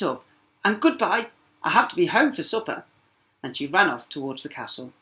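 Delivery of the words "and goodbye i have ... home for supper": princess voice. Acted. Princess hurries off.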